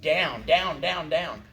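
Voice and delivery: each down stressed on the beat; emphatic beat calls. Shown as a demonstration. Teacher calling the downbeats, each down stressed. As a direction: hit every "down" firmly in time. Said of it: "Put some emphasis in it".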